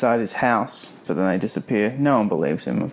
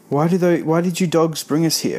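higher, louder demand; 6 semitones higher, 3 dB louder than usual. A narrator's reading. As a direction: read it as an insistent, raised-voice question. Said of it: "Fergie demanded".

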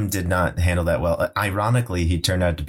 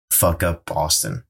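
mock Boston accent; slower than usual. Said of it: "That's like saying, how we would".

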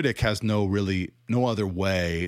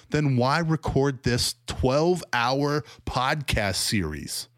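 incredulous; 5 semitones higher than usual. Real, not acted. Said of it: "It's laughable".

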